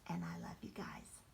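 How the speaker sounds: hushed message to grandchildren; whispered goodbye. Real, not acted. Grandmother whispering goodnight to the grandchildren.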